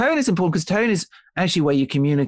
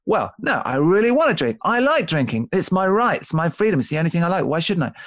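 a touch of indignant whining; defiant pushback; 3 semitones higher than usual. Retold or imitated. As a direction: sulk back like a cornered drinker who won't be told. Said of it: "the innately perverse part of us ... comes back and says".

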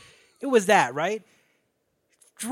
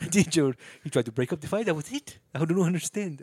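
put-on generic foreign accent, vaguely South African; wandering South African accent. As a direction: play a baffled cartel guy in a muddled South African accent. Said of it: "I don't know why this guy's South African now".

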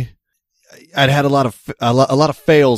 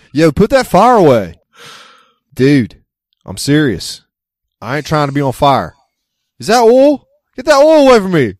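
frantic villager yelling much higher and louder at fire and oil; scared villager; 4 semitones higher, 5 dB louder than usual. Acted. Villager yelling at vampire hunters to put away the oil, panicked and high. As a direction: panic like a peasant eyeing the torch.

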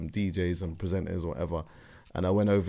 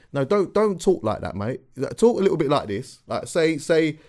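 retold producer; 7 semitones higher, 6 dB louder than usual. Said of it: "The man said to me".

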